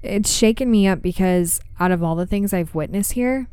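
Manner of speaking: measured, even read-aloud storytelling; story narration. A narrator's reading. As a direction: tell an eerie true account, pausing between phrases.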